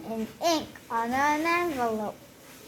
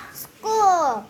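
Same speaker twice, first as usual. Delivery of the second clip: loud, high happy cry; excited shout; 5 semitones higher, 8 dB louder than usual. Acted. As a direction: shout it with glee. Child cheering on first day.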